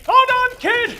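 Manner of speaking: loud, high rescuer's holler; high, urgent call; rallying shout. Acted. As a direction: shout out to the kid. Charges to rescue the kid.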